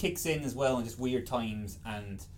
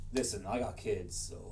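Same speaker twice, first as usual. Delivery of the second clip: mumbled excuse; 5 semitones lower, 7 dB quieter than usual. Retold or imitated. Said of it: "he literally just walks backwards like".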